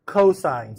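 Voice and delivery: "cosine" said slowly and clearly; demonstrated pronunciation. Shown as a demonstration. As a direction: model "cosine" for a class, drawn out. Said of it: "it's pronounced".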